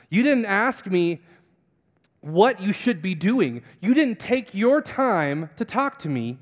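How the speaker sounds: "You didn't ask me" spaced out and pressed home; emphatic reproach. Retold or imitated. God chides a man who never asked, reproachful. God's reproach, voiced by preacher.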